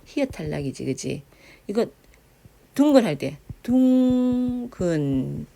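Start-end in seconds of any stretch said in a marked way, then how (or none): 2.8-3.0 둥근 with a long held 둥; drawn-out pronunciation. Shown as a demonstration. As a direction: slowly stretch 둥, then land 근. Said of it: "발음도 둥근".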